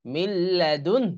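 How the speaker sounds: slow "মিল্লাদুন" with a faint breath of h; light final h. Shown as a demonstration. Teacher answering how to stop, light h after "মিল্লাদুন". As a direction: draw out "মিল্লাদুন", barely sounding h at the end. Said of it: "এই হাটা হালকা একটু উচ্চারণ হবে".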